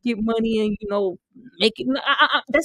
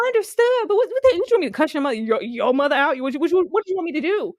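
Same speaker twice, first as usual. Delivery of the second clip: mock exasperated reply; 4 semitones higher, faster than usual. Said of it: "I was like".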